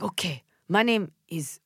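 slow, lightly imitated Korean accent; Doctor Na's Korean accent. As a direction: introduce yourself slowly with a slight Korean accent. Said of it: "I'm imitating her".

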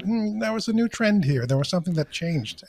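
high, musing device voice; voicing the watch. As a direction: speak as a curious smartwatch. Apple Watch voiced as speaker.

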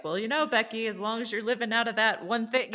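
high, laughing preachy lecture. Retold or imitated. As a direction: play the preachy friend. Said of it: "going too preachy".

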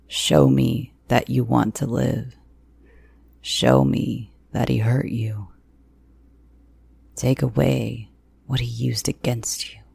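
lightly voiced man giving grim orders; deliberate, restrained command; a hint of a menacing man's voice; commanding captor. A narrator's reading.

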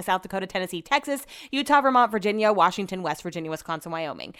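states rattled off quickly, no melody; rattling off fast. Shown as a demonstration. Rattles off the states fast as her party trick. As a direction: race through the list. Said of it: "I could say them all really fast".

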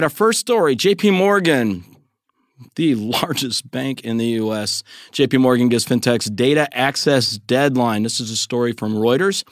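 emphatic podcast news read with deliberate pauses; news story read. Real, not acted. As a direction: present the story like an anchor. Host reads news story.

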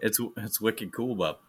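mock Maine accent. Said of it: "the Maine accent slips out of me".

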